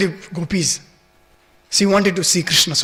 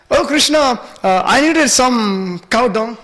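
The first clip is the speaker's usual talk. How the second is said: higher-pitched, lightly acted elderly gopi; gopi's excuse; 5 semitones higher, 3 dB louder, slower than usual. Elderly gopi excusing her visit to Krishna, lightly acted. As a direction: call to the child, then offer an excuse.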